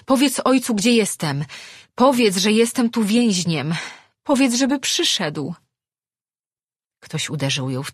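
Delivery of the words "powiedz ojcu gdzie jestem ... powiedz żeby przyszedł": high, loud desperate yelling. A narrator's reading. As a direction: shout the message across the water. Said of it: "wrzasnęła".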